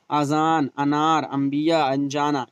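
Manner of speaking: short initial a in "अजान, अनार"; don't hold the first vowel of "अनार"; unstretched alif. Shown as a demonstration. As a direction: open "अंबिया, अनजाना" on a brief a. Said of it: "खींच कर ना पढ़ी जाए".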